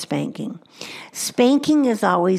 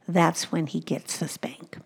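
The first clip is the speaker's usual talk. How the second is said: whispered; 7 dB quieter than usual. Real, not acted. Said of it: "whispered aside".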